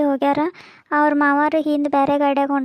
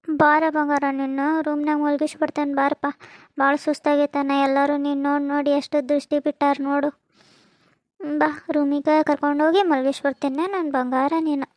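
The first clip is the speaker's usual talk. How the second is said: put-on tender to baby. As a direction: lull the baby gently as you carry it off. Carrying baby to sleep. (ಮಗುವಿಗೆ ಮೃದುವಾದ ಮುದ್ದು ಮಾತು)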